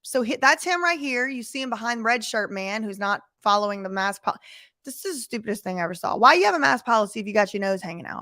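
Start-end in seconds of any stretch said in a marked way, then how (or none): 4.8-8.2 fast, incredulous ranting; exasperated rant. Real, not acted. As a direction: rattle it off in disbelief. Ranting about a mask policy.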